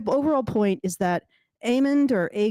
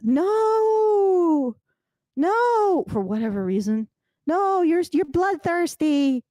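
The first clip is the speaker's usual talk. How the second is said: shrill mother; 7 semitones higher, much slower than usual. Retold or imitated. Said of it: "his mother ... says".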